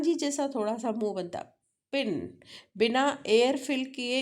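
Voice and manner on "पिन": पिन starting on a puffed p; aspirated p. Shown as a demonstration. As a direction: release a burst of air into पिन. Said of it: "puffing sound आता है".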